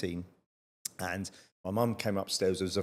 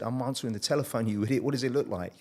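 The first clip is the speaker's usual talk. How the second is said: cheeky retort; 3 semitones higher than usual. Retold or imitated. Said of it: "we're lippy".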